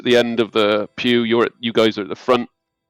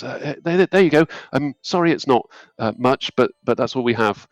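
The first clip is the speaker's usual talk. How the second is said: nervous acolyte; 3 semitones higher than usual. Acted.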